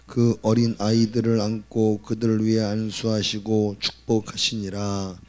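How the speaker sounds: loud, solemn Bible reading to the church; scripture reading. Acted. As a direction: proclaim the verses to the congregation. Congregation reads last verse together. (크고 엄숙한 성경 봉독)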